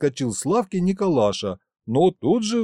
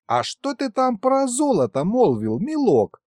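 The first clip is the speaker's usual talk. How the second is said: put-on higher, eager old-man query; lightly voiced greedy old grandpa perks up; 10 semitones higher than usual. A narrator's reading. Old Mikhalych perks up at talk of gold, eagerly. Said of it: "Стал в охотничью стойку Михалыч".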